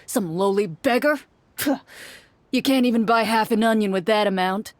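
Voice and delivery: lightly voiced haughty merchant; scornful merchant. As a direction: sneer at a poor offer.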